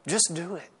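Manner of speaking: quiet, almost to himself: Just do it; soft echo. Retold or imitated. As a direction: drop the voice to a near-private Just do it. Quiet contrasting echo of command.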